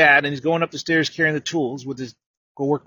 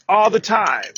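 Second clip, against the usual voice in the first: congregation response; 4 semitones higher, slower than usual. Retold or imitated. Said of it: "And then you say".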